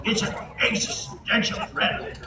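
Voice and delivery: slow, mumbled mock Biden; imitating Biden. Mocking Biden's favourite phrase, lightly voiced. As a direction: drag out existential with a laugh. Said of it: "He loves the word existential".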